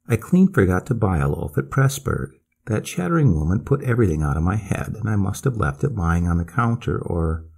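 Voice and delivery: ordinary delivery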